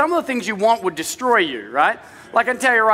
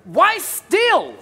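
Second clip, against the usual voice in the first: slow incredulous question; 6 semitones higher, much slower than usual. Retold or imitated. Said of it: "but, like".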